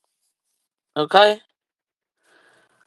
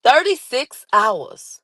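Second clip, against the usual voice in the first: stunned; 4 semitones higher, slower than usual. Real, not acted. Stunned reaction.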